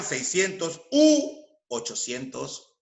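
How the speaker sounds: "u" held long between the numbers; stress on "u". Shown as a demonstration. Teacher showing u before numbers starting with eight, "u" emphasized. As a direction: punch and stretch "u" before "ochocientos". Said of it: "Ante números que empiezan con la cifra ocho".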